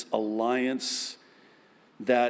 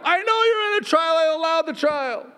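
much higher, louder patient God voice, quick; God's voice; 5 dB louder, faster than usual. Acted. God answering the believer's complaint, high and loud. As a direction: calmly insist as God.

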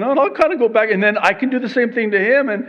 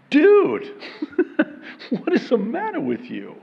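mock friend blurting out; 4 semitones higher than usual. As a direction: blurt it out half laughing. Friend voiced rebuking him.

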